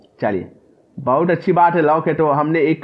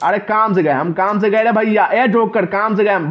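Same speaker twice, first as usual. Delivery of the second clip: mock panic; 5 semitones higher than usual. Real, not acted. Chased, panicking.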